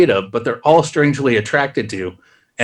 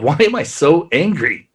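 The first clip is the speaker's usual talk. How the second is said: laughing self-mock. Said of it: "I've often said that to myself".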